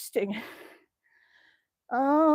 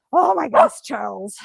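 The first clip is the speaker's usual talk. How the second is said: excited exclaim; 6 dB louder than usual. Real, not acted. Dog excited.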